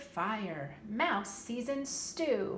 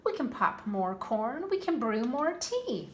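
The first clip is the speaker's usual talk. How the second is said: high, louder squeaky mouse voice; 5 semitones higher, 4 dB louder than usual. Acted. Mouse comforting the crying bear, high and squeaky. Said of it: "Mouse squeaks".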